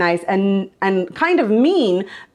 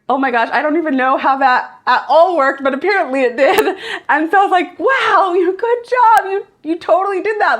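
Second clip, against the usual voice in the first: happy celebrating; 7 semitones higher than usual. Retold or imitated. Mom praising her son for getting it, high and thrilled. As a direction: gush over him like he won a prize. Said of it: "I was happy and celebrating".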